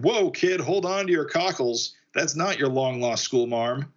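high, urgent call; kid, hold on, urgent; excited warning. Acted. Matter Eater warns loudly.

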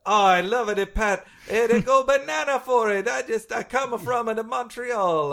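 put-on a goofy Montreal accent for Pat Patterson; Quebec accent. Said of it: "great Quebec accent".

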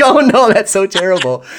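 hammed-up embarrassed wail with a laugh; mock dismay. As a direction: squeal it in laughing mock horror. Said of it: "And I'm like".

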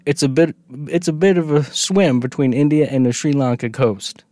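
put-on Indian tour guide with a southern American accent. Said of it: "southern Indians sounded like southern Americans".

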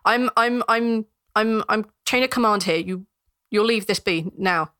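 stuttering guard pulling rank; stern but stammering. Acted. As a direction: try to be firm through a stammer. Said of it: "looks at him kind of sternly".

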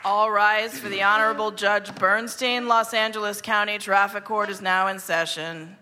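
formal bailiff's proclamation; court announcer. Acted. Bailiff calls the traffic court to order, formal announcement. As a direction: announce the court in session, evenly and officially.

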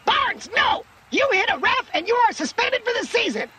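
very high, strained scream through an earpiece; screaming coach. A narrator's reading. Coach to quarterback about to hit a ref, screaming. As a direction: scream the warning in a shrieking pitch. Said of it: "screamed loud enough to make him wince".

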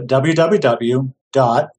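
normal talking voice

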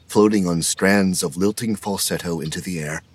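ordinary talk

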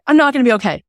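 mock devastated kid; imitating despairing daughter. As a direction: overdo the doom of a panicking child. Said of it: "daughter panicking".

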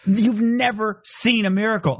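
drawn out, each word pressed; slow emphatic retort. Retold or imitated. To his friend in a miracle debate, slow and emphatic. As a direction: spell out You've never seen a miracle slowly. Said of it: "And I'm always like".

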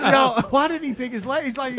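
high, slow laughing question. Real, not acted. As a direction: laugh it out in disbelief. Watching clip, laughing.

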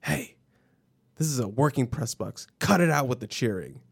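imitated stern announcer, mildly heated; a touch of aggressive PA reprimand; mock aggressive announcer. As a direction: act out an announcer scolding the room. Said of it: "he's, like, very aggressive".

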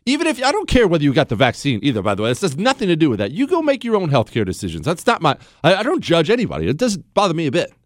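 ordinary delivery

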